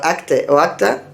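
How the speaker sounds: "acte" ending in E, then "acta" ending in A. Shown as a demonstration. Teacher offers acceptable approximations, "acte o acta" with E and A endings. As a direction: offer "acte" and "acta" as near versions of English actor. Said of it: "se podrían reconocer como acta".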